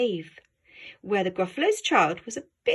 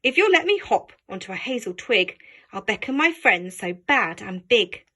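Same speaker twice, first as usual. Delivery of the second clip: mouse voice; 4 dB louder than usual. Acted. Mouse talks to child.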